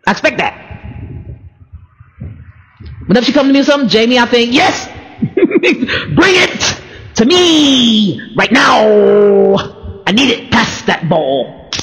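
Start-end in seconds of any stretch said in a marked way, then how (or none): 4.5-11.7 eager excitement. Pretend. To her mentor, begging for correction, excited and laughing. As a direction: beg for the correction like a fan.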